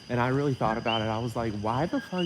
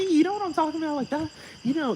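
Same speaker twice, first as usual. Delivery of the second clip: incredulous; 14 semitones higher, faster than usual. Real, not acted. Rhetorical question in raised voice.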